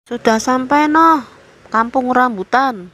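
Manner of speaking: high-pitched conductor's call; calling out the stop. Acted. Bus conductor tells passengers they've reached Kampung Rambutan, calling out.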